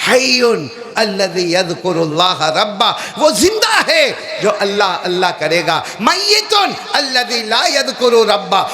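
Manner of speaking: slow, drawn-out chant of the hadith; Arabic recitation. Real, not acted. حدیث عربی میں پڑھتا ہے. (عربی میں ٹھہر ٹھہر کر تلاوت)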